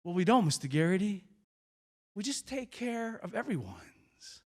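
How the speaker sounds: lightly voiced earnest child, slowing and softening; little first grader. Boy explaining to the visitor, lightly imitated gentle child. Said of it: "this little first grader, and he said".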